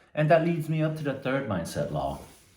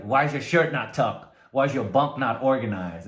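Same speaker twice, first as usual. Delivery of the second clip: louder, retold drill-sergeant yelling; sergeant screaming; 4 dB louder than usual. Sergeant inspecting recruits, loudly mock yelling. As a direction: bark each fault at the recruits. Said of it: "he's screaming like".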